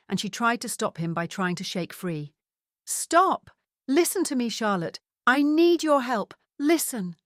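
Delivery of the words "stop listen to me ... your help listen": high, loud, frantic pleas; desperate pleading shouts. Acted. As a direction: beg to be heard while being dragged away. Woman carried out, pleading desperately.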